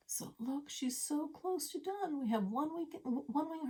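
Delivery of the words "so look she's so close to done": soft excited whisper. Real, not acted. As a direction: breathe it like a secret. Excited aside to camera.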